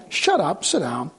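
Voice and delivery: a hint of God putting a child in place; stern rebuke. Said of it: "the Lord's gonna say".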